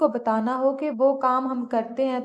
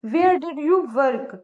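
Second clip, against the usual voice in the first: slow demo; much slower than usual. Shown as a demonstration. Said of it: "कहाँ के लिए हम use करेंगे where".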